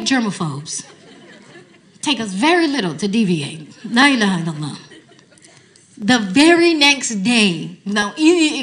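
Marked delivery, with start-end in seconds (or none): 3.8-4.8 laughing. Real, not acted. Repeats with a laugh.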